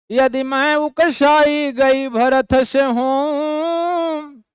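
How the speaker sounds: slow, drawn-out verse recital; poem recitation. Acted. Teacher reciting Kaikeyi's verse to the class, slow poetic recital. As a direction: chant each line of the poem slowly.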